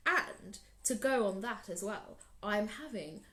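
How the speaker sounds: big proud lion. Acted. Lion boasts to Anansi about his lunch, loud and grand. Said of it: "said Lion".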